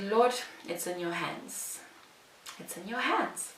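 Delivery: soft, slow surrender to God; retold prayer. Job seeker leaving the interview prays to God, softly surrendering. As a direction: hand it over softly. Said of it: "when I left, I said".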